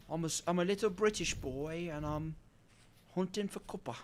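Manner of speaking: badly faked British accent, quiet. Streamer playing a little British boy to chat, bad British accent. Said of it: "That's not a good British accent".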